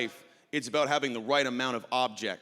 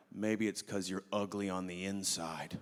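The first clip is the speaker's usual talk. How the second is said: sly jab; 6 semitones lower, 8 dB quieter than usual. Retold or imitated. Sly jab over bouncer's shoulder.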